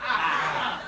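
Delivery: Ah as the flat vowel in fat. Shown as a demonstration. Teacher modelling for the class, flat A. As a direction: say Ah short and flat, as in cat. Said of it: "has a flat A sound".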